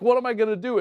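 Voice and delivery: re-enacted alarm; retold panic. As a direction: ask it loudly, as if at a loss. Injured player's panic, retold.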